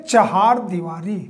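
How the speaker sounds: चहार दीवारी with a clear "ha" in चहार; correct pronunciation. Shown as a demonstration. Teacher correcting how students say boundary wall, correct pronunciation. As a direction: sound out "cha-haar" in चहार दीवारी. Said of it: "pronunciation ही गलत है".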